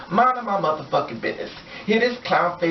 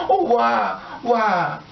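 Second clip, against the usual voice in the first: mock anguished why; 5 semitones higher, much slower than usual. Mocking the killer's grief.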